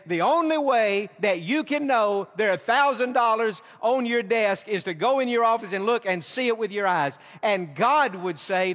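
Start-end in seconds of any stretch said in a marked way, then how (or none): 0.1-7.2 louder, insistent voicing of a skeptic demanding proof; a skeptic insisting on seeing with his own eyes; doubting Thomas. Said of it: "Thomas would have said".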